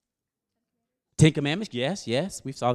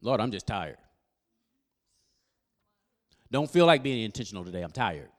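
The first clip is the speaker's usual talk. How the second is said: tired complaint; 7 semitones lower than usual. Retold or imitated. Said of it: "I'll say it out loud".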